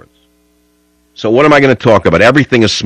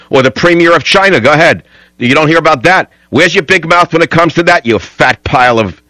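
angry rant. Real, not acted. Host rants at the guest's clip.

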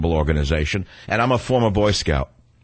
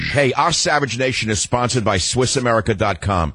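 higher-pitched, emphatic radio ad read; sponsor ad read; 4 semitones higher than usual. Acted. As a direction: pitch the sponsor, slowing on the phone number. Reads sponsor ad.

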